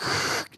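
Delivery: short hissed noise of a sliding door; imitated door sound. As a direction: mimic an automatic door opening. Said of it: "The sensor hits it, and it's like".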